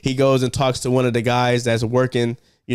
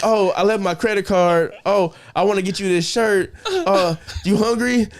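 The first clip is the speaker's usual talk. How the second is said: higher, laughing nervous excuses; flustered excuses; 5 semitones higher than usual. Retold or imitated. Dad making excuses to leave, laughing nervously. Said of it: "he's like".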